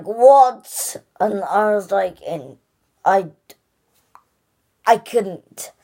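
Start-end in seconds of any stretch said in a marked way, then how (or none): 0.0-1.0 shocked high what; stunned what. Retold or imitated. Kid reviewer reliving the big scene, shocked. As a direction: blurt it out in disbelief.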